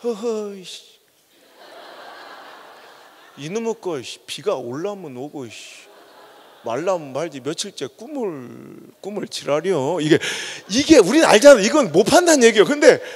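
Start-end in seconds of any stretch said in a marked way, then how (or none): 0.0-10.0 put-on soft, low old man muttering in Chungcheong dialect; grumbling Chungcheong grandpa. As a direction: grumble to yourself like a stubborn old farmer. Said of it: "충청도 할아버지 그러더래". (충청도 할아버지처럼 낮게 투덜투덜)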